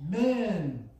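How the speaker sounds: slow, drawn-out marvelling; acted slow disbelief; mock amazement. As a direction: marvel slowly, imitating an astonished onlooker. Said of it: "they're gonna freak out and say".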